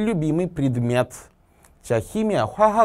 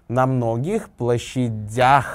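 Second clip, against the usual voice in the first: площадях with long, stressed дях; slow phrase, landing on дях in площадях; stress on final syllable; much slower than usual. Shown as a demonstration. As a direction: draw out the last syllable of площадях. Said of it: "뒤에 야흐로 강세가 갑니다".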